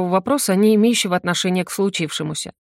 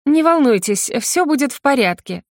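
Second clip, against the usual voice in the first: higher, sweet smiling reassurance; broad smile; 7 semitones higher than usual. A narrator's reading. Lawyer Venera reassures her client, smiling. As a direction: soothe her with a wide grin. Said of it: "улыбается во все тридцать два".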